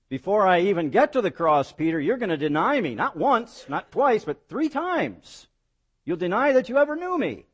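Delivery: high, loud prediction climbing to a peak; emphatic foretelling. Acted. Preacher as Jesus warning Peter of denial, high and insistent. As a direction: drive it home count by count, pitch soaring.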